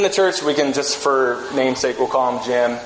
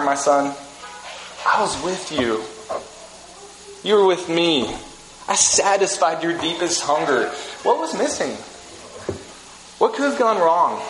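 a hint of a longing divine voice; voice of God's heart. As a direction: ask like a heartbroken father. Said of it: "the inner dialogue of God's heart".

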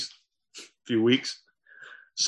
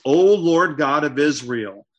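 slow, louder solemn invocation; calling on God; 5 dB louder, slower than usual. Acted. Jonathan calls God to witness his vow, solemn invocation. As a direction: call out slowly to God as witness. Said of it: "He's calling on the God of Israel".

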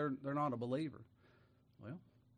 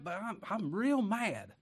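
put-on anger; 4 semitones higher, much slower than usual. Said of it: "What if we put on".

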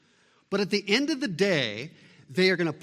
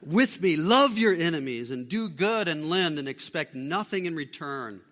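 loud, stressed reading of the verse; emphatic reading; 6 dB louder than usual. Shown as a demonstration. Preacher to congregation, loud emphatic verse reading. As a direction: read it out big, leaning on each you. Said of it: "super emphatic in the original text".

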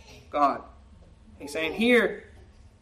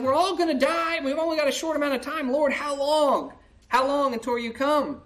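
despairing plea; 5 semitones higher than usual. Acted. Psalmist voiced in despair.

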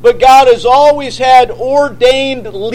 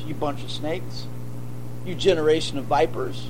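John the Baptist rebuke; 8 semitones lower, 13 dB quieter than usual. Retold or imitated.

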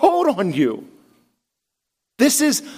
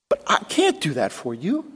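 quiet admission; 5 semitones lower, 6 dB quieter than usual. Real, not acted. Pastor admitting limits.

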